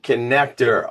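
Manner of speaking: winded from the stairs; breathless host intro; out of breath. Real, not acted. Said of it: "I'm out of breath".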